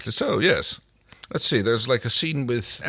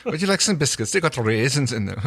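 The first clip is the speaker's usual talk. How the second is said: Mrs Doyle impression; 4 semitones higher than usual. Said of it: "Missus Doyle from Father Ted".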